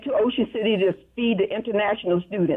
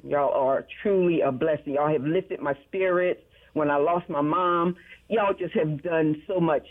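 heartfelt thanks; 5 semitones lower than usual. Real, not acted. Caller thanking station, moved.

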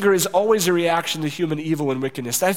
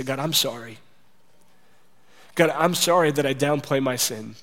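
humble prayer. Shown as a demonstration. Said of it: "repent and say".

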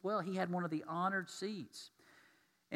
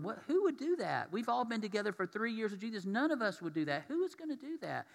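pitched-up, incredulous protest; shocked disbelief; 4 semitones higher than usual. Retold or imitated. Disciples protesting to Jesus, shocked and disbelieving. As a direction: imitate stunned disciples denying it. Disciples react to betrayal news.

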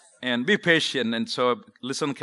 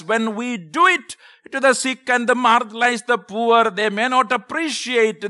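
raised, emphatic pulpit preaching; preaching sermon. Acted. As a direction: preach it out to the congregation.

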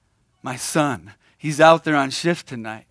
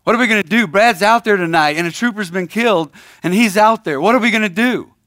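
higher, rising mock alarm; mock panic; 4 semitones higher, faster than usual. Husband waking his wife, a hammed-up panicked plea. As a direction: play the frantic husband, half-joking. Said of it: "wake up my wife and say".

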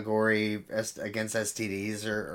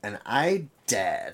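put-on slow teen girl voice, laughing; a hint of a teenage girl voice; much slower than usual. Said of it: "Sorry, I'll stop doing the voice".

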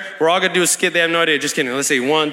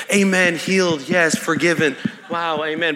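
poker-faced piety; 4 semitones lower than usual. Acted. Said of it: "you know, religious face".

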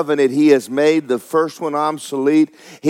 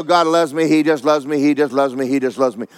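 self-reassuring repetition. Retold or imitated. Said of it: "I lay down and I go".

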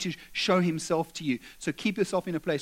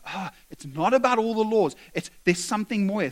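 eager realization; 3 semitones higher, 3 dB louder than usual. Acted. Preacher voices the eager scribe.

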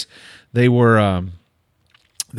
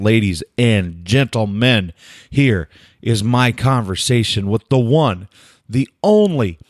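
grand guest introduction. Real, not acted. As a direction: roll out each phrase with dramatic pauses.

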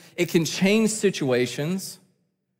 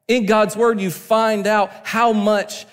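higher-pitched, driving sermon delivery; impassioned preaching; 4 semitones higher than usual. Real, not acted. Preacher telling the congregation how much God loved them, impassioned preaching. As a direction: preach it with mounting insistence.

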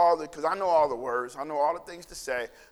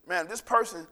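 fervent prayer; 4 dB louder than usual. Retold or imitated. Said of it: "And I go".

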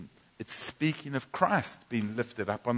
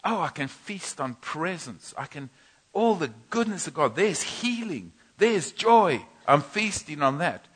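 higher and louder, joyful feasting; eager delight; 4 semitones higher, 5 dB louder than usual. Retold or imitated. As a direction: relish every good thing out loud. Delighting at God's table.

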